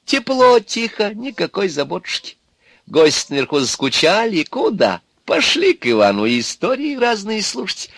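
high, cosy sales pitch from a crone; cajoling Baba Yaga. Acted. Baba Yaga offers Ivan a stoker's job, cajoling. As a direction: sweet-talk him into staying.

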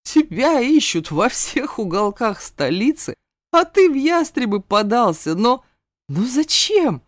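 high, loud, laughing incredulity; laughing in disbelief. A narrator's reading. The mentor laughs in disbelief at the runaway heir. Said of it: "расхохотался".

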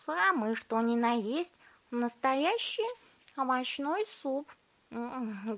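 high, slow savouring; delighted girl. A narrator's reading. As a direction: relish every word with gum in mouth. Violetta savouring the gum.

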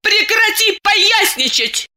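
высоко и медленно, с нажимом; топни ногой и прикажи; сердито. A narrator's reading. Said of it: "топнула ногой Диана". (Диана топает ногой и кричит)

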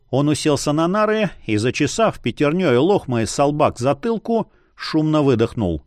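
ordinary delivery

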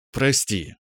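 playful half-joking sorry; mock repentance. Man playfully apologizes to the pouting girl. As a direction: apologize with a laugh in it. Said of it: "Я изобразил смешливое покаяние".

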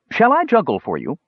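high-pitched, inviting dwarf voice; dwarf showman. A narrator's reading. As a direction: offer the trick in a lifted voice. Dwarf showman offers his act.

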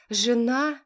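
ЖЕНА? high and loud with a rising question; outraged disbelief on ЖЕНА?; ЖЕНА? shouted, rising; shocked cry. A narrator's reading. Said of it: "закричала женщина".

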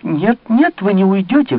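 high, loud outcry of protest; sharp cry. Acted. Montalais stops Malicorne from leaving, crying out high. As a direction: cry out to stop him leaving. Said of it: "вскрикнула Монтале".

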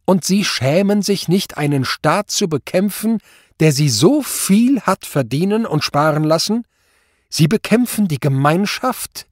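high, loud denunciation; outraged judge berating the accused; indignant tirade. A narrator's reading. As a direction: shame him before the court.

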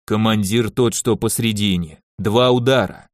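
low hum muffled inside a helmet; booming from a helmet. Acted. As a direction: drone it out from under a knight's helmet. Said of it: "прогудел из-под шлема".

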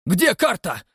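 high, loud panicked demand; frantic shout. Acted. Rastopchin shouting, searching for the map.

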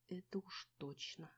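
very soft, slow, barely voiced; mouthed. A narrator's reading. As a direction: say it only with the lips. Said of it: "сказала я одними губами".

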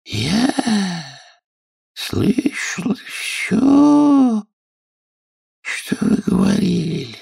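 high, slow, drowsy squeak; a dozy little creature straining to stay awake; sleepy Dormouse. Acted. Dormouse answering the Hatter and Hare, sleepy and slow.

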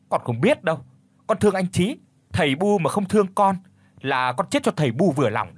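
loud high tantrum cry; wailing shout. Acted. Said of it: "gào giống lên như một con lợn bị chọc tiết".

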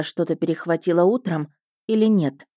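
plain reading voice

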